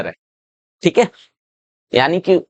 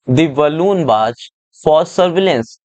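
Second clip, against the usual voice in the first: slow passage reading; much slower than usual. Shown as a demonstration. Teacher reads passage aloud slowly.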